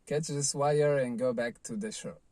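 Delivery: half-shouted order, retold; imitated yell. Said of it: "then he yelled at me".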